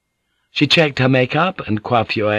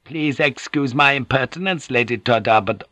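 lightly voiced humble supplicant, higher; humble Gyoko; 4 semitones higher than usual. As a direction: plead deferentially, pitched up.

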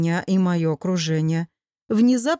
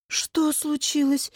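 slightly higher, anxious question; alarmed; 5 semitones higher, 3 dB quieter, slower than usual. A narrator's reading. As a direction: ask with worry, drawing it out. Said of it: "встревожилась я". (встревоженно)

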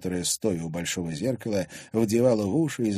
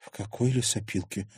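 softer, mildly surprised question; puzzled; 5 dB quieter than usual. Acted. Girl puzzled by the thugs' claim, surprised. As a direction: ask softly in bewilderment. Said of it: "ещё больше удивилась Лиза".

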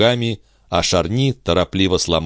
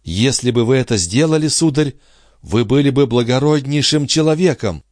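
put-on a young woman's higher voice in despair; grieving heroine, raised and higher; Andrée's anguished voice; 7 semitones higher than usual. A narrator's reading. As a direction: lament it, lifted and pleading. Andrée answering.

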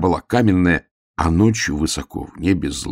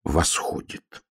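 slow, hushed solemn bear cub; weighty, drawn-out words; self-important; 4 dB quieter than usual. A narrator's reading. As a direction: announce it grandly but quietly, drawing it out. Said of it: "важно сказал медвежонок".

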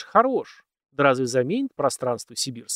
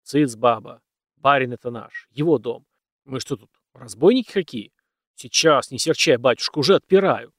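firm call; 5 dB louder than usual. Acted. Husband hushes wife, calls to master.

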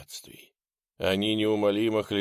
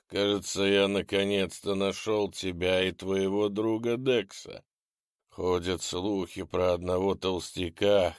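menacing ghoul. Acted.

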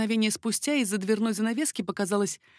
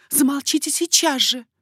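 higher, louder command; sharp hush; 7 semitones higher, 8 dB louder than usual. A narrator's reading. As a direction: insist he hush now. Queen hushing him sharply.

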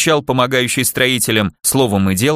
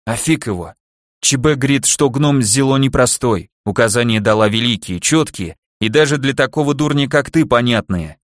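foolish bleating. Acted. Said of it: "Дурашливо проблеял".

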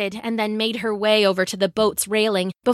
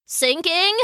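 high, rising alarmed question; startled boy's small yelp; 7 semitones higher than usual. A narrator's reading. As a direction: squeak it in mild alarm. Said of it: "yelped Abdul".

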